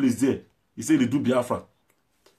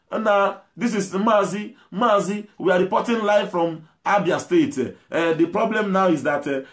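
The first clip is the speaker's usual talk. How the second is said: mock reporter; 3 semitones higher than usual. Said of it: "trying to speak English and pidgin together is the madness there".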